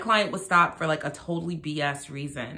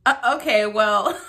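surprised; 5 semitones higher, 8 dB louder than usual. Real, not acted. Reacting to the clip.

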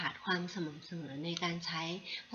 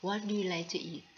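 very slow, careful English repeat; teacher repeating a phrase slowly; slow model sentence; much slower than usual. Shown as a demonstration. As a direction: say it again slowly for learners to copy. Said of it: "อย่างเช่นถ้าเราอยากจะพูดคำว่า".

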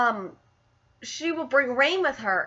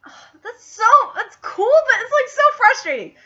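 laughing and crying; 8 semitones higher, 7 dB louder than usual. Real, not acted. Fan torn between joy and frustration.

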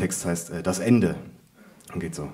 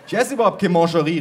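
raised, higher, quick protest; exasperated cry; 6 semitones higher, 5 dB louder, faster than usual. A narrator's reading. Narrator to mother over unwanted pralines, exasperated protest. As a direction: protest loudly and fast. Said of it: "rief ich".

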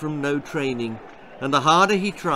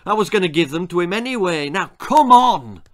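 urgent; 5 semitones higher, 8 dB louder than usual. A narrator's reading. Coach urges the boy.

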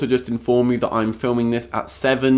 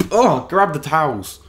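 eager beachgoer; 5 semitones higher than usual. Pretend. Brits rushing to the beach.

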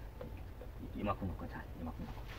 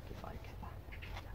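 breathy whisper to himself; 23 dB quieter, much faster than usual. Real, not acted. Gardener whispering to himself while laying out the cuttings. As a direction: murmur it under your breath as you work.

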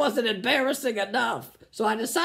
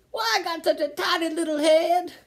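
mock redneck; 7 semitones higher than usual. Mock redneck musing on hat.

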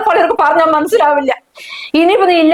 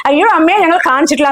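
fast, lightly mocking whine of the daughter-in-law; mocking imitation; 4 semitones higher, faster than usual. Mother mocking the couple's excuse to her son, quick mimicry. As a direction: parrot her fake innocence, quick. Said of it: "എന്നിട്ട് എന്നോട് എന്താ പറഞ്ഞു?".

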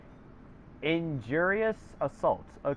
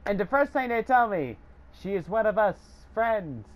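laughing; 5 semitones higher than usual. Real, not acted. Still laughing about rats.

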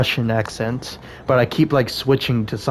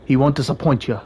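attempted Russian accent. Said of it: "give Alexei and Alina a more Slovak or Russian accent".

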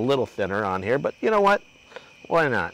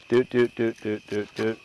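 little repeated doot-doot sound effect; rhythmic, even doots to fill the moment; spoken doot noises; 2 semitones lower, 4 dB quieter than usual. Real, not acted. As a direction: doot along idly while working. Host vocalizes while working.

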